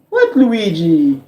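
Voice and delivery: low, slow, offhand Mario answering. Retold or imitated. Mario answering his brother in a low slow voice. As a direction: drawl out a bored Mario reply. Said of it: "the Luigi I can do".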